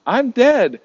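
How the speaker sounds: overplayed theatrical despair; mock dramatic celebrity. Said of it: "And she's like".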